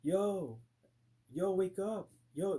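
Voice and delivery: loud, high wake-up call; urgent calling out. Retold or imitated. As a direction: shout to rouse unresponsive friends. Trying to wake unresponsive friends.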